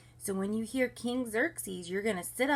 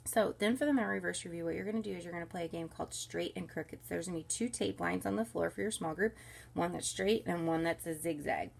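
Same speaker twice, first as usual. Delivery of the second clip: usual speaking voice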